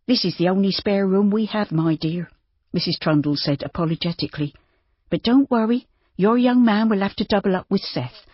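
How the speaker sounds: lightly voiced farmer's wife, apologetic; apologetic farm wife. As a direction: kindly excuse the small room. Missus Trundle apologises.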